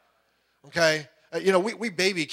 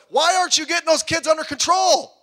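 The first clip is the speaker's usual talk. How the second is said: higher and louder mock wife complaint; mock scolding wife; 12 semitones higher, 7 dB louder than usual. Preacher voices a wife blaming her husband for the kids, in a high mock nag. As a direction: nag him like an exasperated wife.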